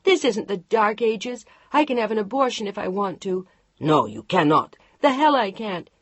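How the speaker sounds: furious wife yelling; angry shouting. Acted. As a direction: throw it in his face. Heated marital quarrel.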